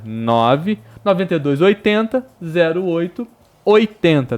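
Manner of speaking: noventa e dois read as paired numbers; grouped numbers. Shown as a demonstration. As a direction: say oitenta as one grouped number. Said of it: "Vou repetir". (números agrupados em pares)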